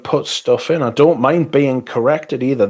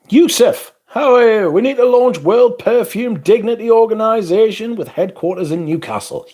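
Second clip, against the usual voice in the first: playful high voice; 11 semitones higher than usual. Pretend. Mock-grand chat reading, playful voice.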